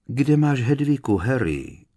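motherly coaxing to ease the tension; soothing tone. A narrator's reading. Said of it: "zeptala se chlácholivým tónem".

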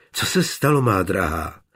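a gently worried question, falling on se; concerned. Acted. Johann asks his dear one, gently concerned. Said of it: "zeptal se starostlivě".

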